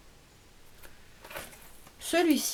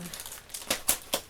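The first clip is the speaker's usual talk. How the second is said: resigned slow whisper to herself; 7 dB quieter, much slower than usual. Real, not acted. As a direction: breathe it out, slow and soft. Shrugging it off twice.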